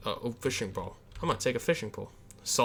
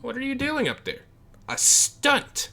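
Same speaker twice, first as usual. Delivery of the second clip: lightly voiced curious guy; 12 semitones higher, 4 dB louder than usual. Reuben asks, voice high.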